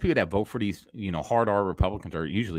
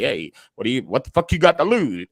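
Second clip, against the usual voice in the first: Trump impression; 3 semitones higher, 6 dB louder than usual. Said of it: "Trump is like".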